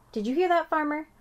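high, loud excited call. A narrator's reading. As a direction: call over to the farmer. Junie calling to farmer.

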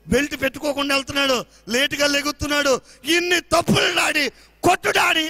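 put-on a loud, eager child's telling-on voice; tattling little girl. Daughter telling on her brother to daddy, loud and eager. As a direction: rattle off the brother's faults to daddy.

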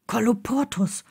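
mild grumbled spell. A narrator's reading. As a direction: mutter the spell. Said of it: "brummte Neville".

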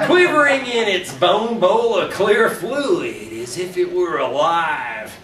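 chuckling through the words; can't keep a straight face reading it; laughing. Real, not acted. Reader cracking up at her own gross story, laughing.

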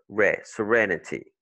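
"re" alone, then "serenity" as suh-REN-uh-tee; stress on RE. Shown as a demonstration. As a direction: lean on the "re" of "serenity". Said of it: "des syllabes est accentuée".

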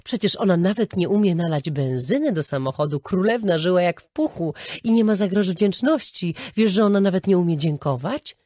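mock his sneering grievance; indignant quoting. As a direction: friend quoting the husband's scorn, loud and indignant. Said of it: "cytowała jego słowa".

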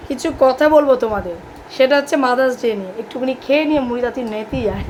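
talking while chewing; eating puffed rice. Real, not acted. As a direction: mouth full of puffed rice. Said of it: "মুড়ি মাখা খেতে খেতে".

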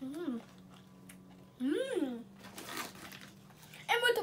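chewing while murmuring; speaking between crunchy bites; mouth full of chips. Real, not acted. Seen 0: cheeks full and chewing from 0 to 3.5; chip bitten at -5.

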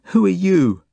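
high, loud tearful demand; sobbing child. A narrator's reading. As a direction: sob it out in a little girl's high voice. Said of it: "sobs the girl".

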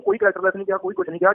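rising high in protest; indignant protest that he said nothing; heated denial. Real, not acted. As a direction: deny it outright, pitch leaping up. Denies an accusation heatedly.

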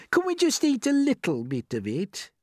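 pleading Miss Spider. Acted.

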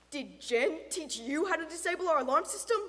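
loud questioning, a hint of suspicion; lightly voiced interrogating father; stern father. Father questioning intruder about alarm, mildly stern.

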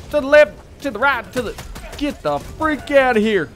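a Southern twang in battle; Southern war accent. Pretend. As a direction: slip into Southern while calling orders. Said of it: "I don't know why I go southern when I'm in war".

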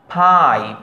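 ফাইভ opening on a puffed ph; aspirated p. Shown as a demonstration. Teacher repeating the example, ফাইভ with aspirated opening. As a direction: model word ফাইভ, breath burst then falling tune. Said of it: "প্রথমটা ফ".

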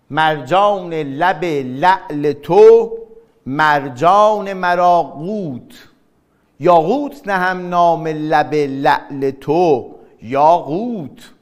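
slow, measured verse reading; poem recital. Shown as a demonstration. (دکلمهٔ آهسته شعر)

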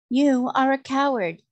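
high, loud proud retort; proud defiance. A narrator's reading. Queen defying the magician, proudly scornful. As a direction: fling the insult back proudly. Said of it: "declared the queen proudly".

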